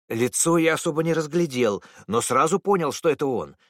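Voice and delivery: с вызовом, на высоких нотах; упрямо и с вызовом; вызывающе. Acted. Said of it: "вызывающе отозвался Эйджерсон". (дерзкий ответ свидетеля)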